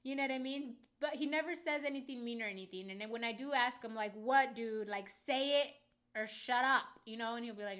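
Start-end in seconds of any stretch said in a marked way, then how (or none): 4.1-7.0 loud, drawn-out exasperation; fed-up retold outburst; exasperated demand. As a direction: demand an answer, slowly and loudly. Acting out demanding an answer from dad.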